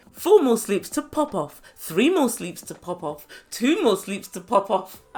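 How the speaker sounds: slow countdown, leaning on each number; gleeful mock countdown. Mimicking a woman eager for a fight, mock gleeful countdown. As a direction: count down slowly, relishing the wait.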